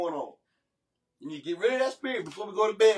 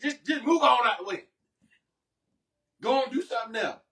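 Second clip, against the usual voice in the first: imitated impatient wife, pitch jumping up; mocking bossy wife; 5 semitones higher than usual. Husband acting out his wife ordering him aside, mocking her bossiness. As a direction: mimic her shooing someone aside. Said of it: "Can I show you how she said in that tone".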